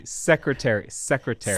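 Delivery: secretary as SEC-re-tary, testing it evenly; first-syllable stress. Shown as a demonstration. Coach working out the emphasis, SEC stressed in secretary. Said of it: "Maybe the first".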